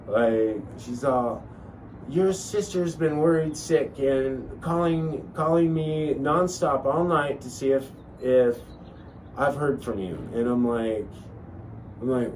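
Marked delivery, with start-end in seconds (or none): 2.1-10.1 lightly imitated mom, pitched up at first; a hint of a fretting mother's scolding; mom's little voice. Mom tells son his sister worried all night, lightly mimicked scolding. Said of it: "I had that little voice in my mom".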